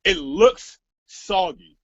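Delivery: slow dismissive mimicry; mock quote. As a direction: drag it out like her dismissive reply. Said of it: "the first thing she replies to me is".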